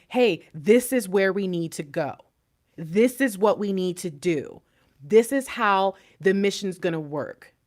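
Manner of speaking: slow, measured, even statements; clear, concise. Acted. Divine Feminine telling counterpart the mission, clear and measured. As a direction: lay it out deliberately, phrase by phrase. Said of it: "you being very clear, concise".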